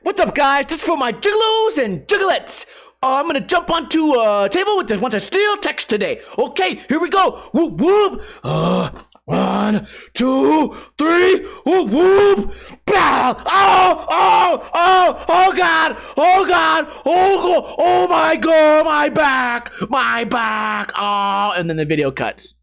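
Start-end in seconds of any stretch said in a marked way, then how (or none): 0.0-8.2 high lisping hype-guy voice; chirpy, high hype-man intro; goofy YouTuber impression. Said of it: "I can do the whole bit right now". 8.4-12.5 building countdown. Pretend. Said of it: "I can do the whole bit right now". 12.8-21.5 high shouted cries of pain; pained yelling. Pretend. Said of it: "I can do the whole bit right now".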